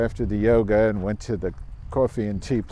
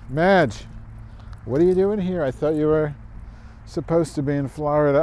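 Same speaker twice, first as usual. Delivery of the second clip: surprised teacher; 6 semitones higher than usual. Retold or imitated. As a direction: act out the teacher's surprise at seeing Madge. Teacher surprised to see her.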